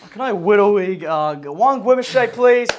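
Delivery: put-on w-for-r voice, rising on please; Widowy voice. Rehearsing the drive-through order, Widowy voice. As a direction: practise the silly Widowy voice. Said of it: "I'll do the Widowy voice".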